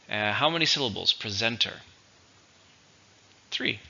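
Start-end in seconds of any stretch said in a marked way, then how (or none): 1.1-1.8 "Presenter" as pre-ZEN-ter; stress on second syllable. Shown as a demonstration. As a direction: model "Presenter" with the weight on ZEN. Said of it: "Stresses on the second".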